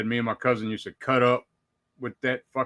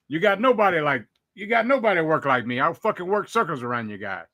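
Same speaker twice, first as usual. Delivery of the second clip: Aussie voice; 4 semitones higher than usual. Retold or imitated. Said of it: "that Aussie part is fantastic".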